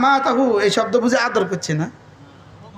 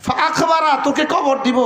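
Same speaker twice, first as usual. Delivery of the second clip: higher, emphatic warning; raised declaration; 4 semitones higher than usual. Acted. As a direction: proclaim it up high to the crowd. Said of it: "বলেন, সত্য না মিথ্যা?". (উঁচু জোরালো ঘোষণার সুরে)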